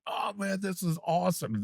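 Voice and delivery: awed excitement. Retold or imitated. Friend shown round the studio, awed excitement. Retelling friend's admiring reaction.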